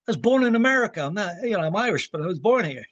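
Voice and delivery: a high, loud correction that leans on born; mock offended, I was born here; indignant protest. Donnelly corrects speaker, retold protest.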